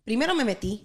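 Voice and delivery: slipping from English into Spanish; switching languages midsentence. Real, not acted. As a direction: carry on the story in Spanish. Switches to Spanish mid-story.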